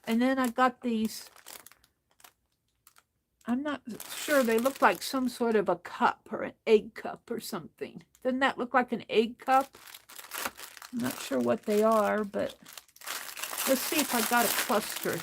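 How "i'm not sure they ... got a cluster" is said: talking while crunching; eating between words; crunching chips. Real, not acted. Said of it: "I hope you guys don't mind the crunching".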